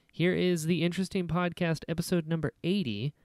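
upbeat host announcing the guest; announcer read. Acted. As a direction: build up to the episode. Announcing the episode start.

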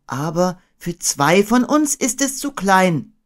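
put-on high, slow, mildly plaintive boy; sad. A narrator's reading. Boy seeing the tiny ship, high and sad. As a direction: lament it slowly up high. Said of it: "sagte Christopher Robin traurig".

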